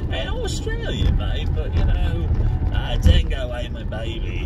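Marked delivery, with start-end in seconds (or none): 0.1-1.5 high, drawn-out Aussie twang; Australian accent. Shown as a demonstration. Man demonstrating his accent flip-flopping, Australian accent. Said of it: "it flip-flops between English and".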